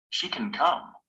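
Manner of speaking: "can" short and weak, stress on "come"; weak reduced can. Shown as a demonstration. Teacher models a reduced "can" before a verb. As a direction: slide over "can" and land on "come". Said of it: "The pronunciation is short and weak".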